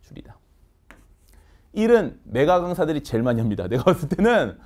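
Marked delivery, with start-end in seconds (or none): 0.0-0.4 줄이다 in a breathy whisper; whispered repeat. Shown as a demonstration. Teacher whispering 줄이다 as a repeat cue. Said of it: "얘도 줄이다".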